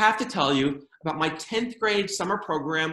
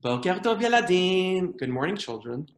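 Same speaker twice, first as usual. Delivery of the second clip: put-on teacher to small children. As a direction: coo it gently, as if to a kindergarten class. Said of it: "they speak to you like you're five years old".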